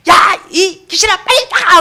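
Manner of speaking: high, loud mock command; acted exorcism shout. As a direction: imitate someone shouting down a demon. Acting the deacon attacking the demon.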